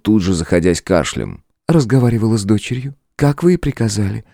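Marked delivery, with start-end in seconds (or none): 1.7-4.3 высоко, с мягкой насмешкой; улыбнуться королю; с улыбкой. A narrator's reading. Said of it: "с улыбкой на лице". (демоница отвечает с улыбкой)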